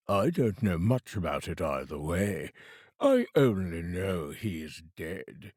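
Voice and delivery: a hint of a heavy, indifferent merchant; lightly voiced fat man. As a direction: play the fat businessman, unconcerned.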